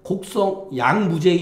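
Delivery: 곡성, a break, then 약무제의 run together; pause before 약. Shown as a demonstration. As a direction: join 약 to 무제의 as one group. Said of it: "이렇게 읽어도 돼".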